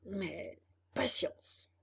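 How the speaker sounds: slow, soft resignation; resigned sigh. A narrator's reading. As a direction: give up with a sigh. Resigned donkey ends his complaint.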